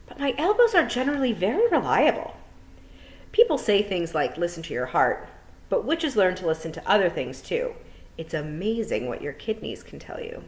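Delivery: a hint of a brisk, worried witch, rising loud at the end; teacher lightly voicing a fretful witch; lightly voiced old witch. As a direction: voice the witch muttering over her omen. Miss Tick speaks in story.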